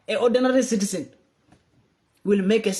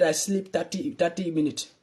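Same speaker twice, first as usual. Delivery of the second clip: mock quote of president; 3 semitones lower, slower than usual. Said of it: "You said".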